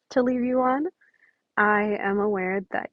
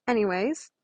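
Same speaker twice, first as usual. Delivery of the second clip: laughing whisper; 4 dB quieter than usual. Real, not acted. Laughing outro aside.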